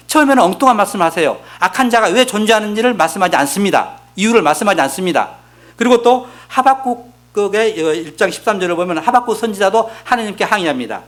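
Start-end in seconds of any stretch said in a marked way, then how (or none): none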